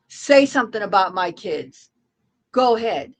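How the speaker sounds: furious mother daring the other streamer; angry dare. Real, not acted. Quarrel, daring her to insult.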